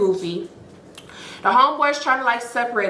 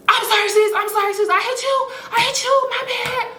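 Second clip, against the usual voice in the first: high, laughing half-cry apology, much higher; 13 semitones higher than usual. Retold or imitated. Imitating the sister apologizing, high and laughing. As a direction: squeal sorry through laughter. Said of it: "So she was like".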